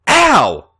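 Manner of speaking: put-on loud, high drunken "Ow!"; pained moan. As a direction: moan it as you hit the floor. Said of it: "she moaned".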